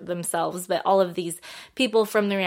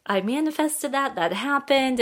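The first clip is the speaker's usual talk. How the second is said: lightly acted thrill, pitched higher; retold marvelling; 6 semitones higher than usual. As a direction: relive the amazement in a higher voice.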